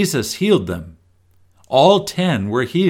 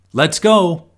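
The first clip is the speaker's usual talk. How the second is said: bright, higher excited call; rally the family into the car; eager; 6 semitones higher, 4 dB louder than usual. Shown as a demonstration. Family piling into the car for a trip, excited. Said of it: "fun trip".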